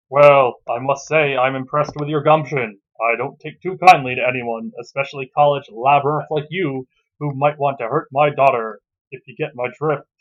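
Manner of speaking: put-on loom over the boy as the girlfriend's father; stern father. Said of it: "clears throat".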